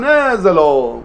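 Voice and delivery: a hint of a scoffing Satan; lightly voiced Satan, dismissive and rising; Satan's challenge. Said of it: "ואז אומר השטן". (השטן מזלזל בגלוי, בטון מתגרה קל)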